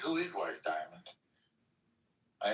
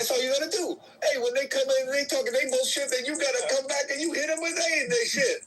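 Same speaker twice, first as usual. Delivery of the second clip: mock Black American accent, pitched much higher; high, louder put-on Black American accent; imitated Black man's accent; 12 semitones higher, 4 dB louder than usual. Retelling a room argument in a mock Black American accent. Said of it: "answered him back in his accent".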